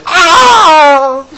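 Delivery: high, loud anguished cry; bitter wail. Retold or imitated. Esau crying out to his father, loud bitter wail. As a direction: let out a bitter wailing cry. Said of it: "He wept bitterly".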